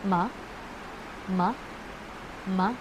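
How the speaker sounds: "Ma" lifting upward like a question; rising second tone. Shown as a demonstration. Teacher demonstrating second tone, "Ma" rising as a question. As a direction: ask "Ma?" with the pitch going up. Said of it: "para siyang medyo pa-question".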